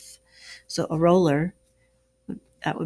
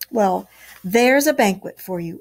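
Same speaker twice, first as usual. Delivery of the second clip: pleased; 5 dB louder than usual. Acted. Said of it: "observed the rat".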